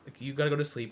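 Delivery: low, soft bedtime plea; soft hushed plea. Retold or imitated. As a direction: coax her gently to sleep. Telling partner to sleep, softly.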